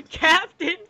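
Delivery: slow, high, booming announcer voice; hammy stage actor. Acted. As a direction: drag out the name like a stage villain reveal. Dramatic announcement of the name.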